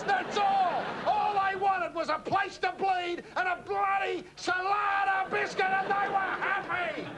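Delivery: rising patriotic rant. Acted. Host to Roy, ranting about lost Australian biscuits, builds to a shout. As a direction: thunder it like a patriot's battle cry.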